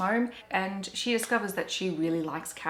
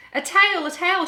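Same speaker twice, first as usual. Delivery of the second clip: high, loud joyful cry; excited shout; 12 semitones higher, 9 dB louder, slower than usual. Acted. Both possums seeing the new tail, shouting with joy. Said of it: "shouted both possums at once".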